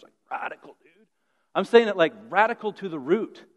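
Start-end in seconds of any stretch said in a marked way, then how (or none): 0.3-1.1 laid-back surfer dude voice; stoked skater drawl. Shown as a demonstration. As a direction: say it like a chill skater. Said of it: "I'm not saying it like a skater language".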